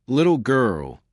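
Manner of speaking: tight, held-back irritation; a hint of restrained fury; barely controlled anger. A narrator's reading. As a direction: keep the anger just under the surface. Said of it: "he said with barely controlled anger".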